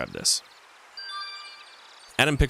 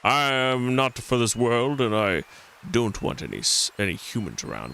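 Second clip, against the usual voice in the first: put-on Scottish accent. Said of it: "I'm not doing a Scottish accent anymore".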